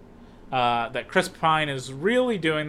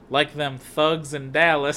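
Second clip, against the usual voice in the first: west texas twang; 4 dB louder than usual. Retold or imitated. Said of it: "That's a West Texas accent".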